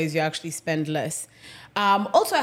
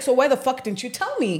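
retold indignant demand, raised pitch; worked up; 4 semitones higher than usual. Tenant confronting caretaker over no warning, worked up. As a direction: act out a worked-up challenge. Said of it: "Worked up".

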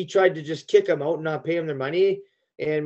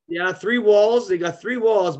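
emphatic; 6 semitones higher, 6 dB louder, slower than usual. Real, not acted. Insisting the rink had three walls.

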